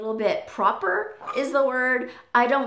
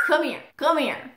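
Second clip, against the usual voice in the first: parrot imitation; 5 semitones higher than usual. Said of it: "He makes that noise like".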